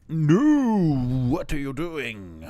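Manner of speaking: high, loud, drawn-out no; exasperated outcry. Real, not acted. Player protesting at the game going wrong, exasperated. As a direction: cry out in dismay, then ease down.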